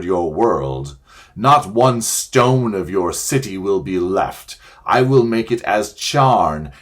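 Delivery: a lightly voiced witch, clear and ringing; triumphant witch. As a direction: proclaim her threats like a bell. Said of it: "clear like a great bell".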